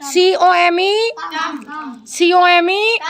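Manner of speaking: सीओएमई drawn out letter by letter, rising; teacher modelling come letter by letter; spelled slowly. Shown as a demonstration. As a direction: stretch सीओएमई with a questioning rise. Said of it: "सी से आवाज काफ की निकलती है".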